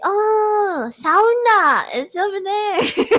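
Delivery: suddenly getting it, high and eager; imitating a helpful local. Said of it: "They'll be like".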